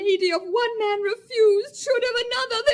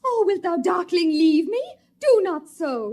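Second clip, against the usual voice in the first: crying plea; 4 dB louder than usual. Acted. Helena abandoned in the wood.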